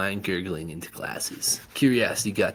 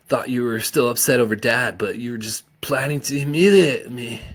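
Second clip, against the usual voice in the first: hurt accusation; 4 semitones higher, 7 dB louder than usual. A narrator's reading. Son accusing mother.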